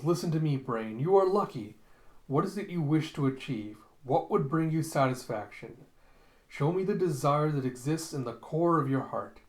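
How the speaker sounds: lightly theatrical, pressing speech; urgent exhortation. Retold or imitated. Scientist urging the brain to name its desire, mildly grand. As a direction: urge it on like a stage scientist.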